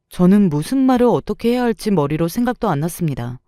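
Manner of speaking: ordinary delivery, nothing marked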